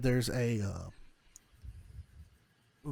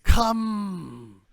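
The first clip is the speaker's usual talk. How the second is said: high, slow, wailing crone; old lady fortune teller; 6 semitones higher, 3 dB louder, much slower than usual. Acted. Old woman says there is no time, high drawn-out crone voice. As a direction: urge them in with long drawn-out high words. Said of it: "old, old lady".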